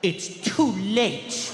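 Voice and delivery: slow, drawn-out mock reproach; wounded child. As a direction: stretch every word accusingly. Child's wounded reply to mom.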